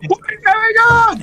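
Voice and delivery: muffled talking. Shown as a demonstration. Podcaster mocking his mate's broken microphone, muffled. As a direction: imitate a garbled, muffled mic. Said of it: "it's like you're talking like this".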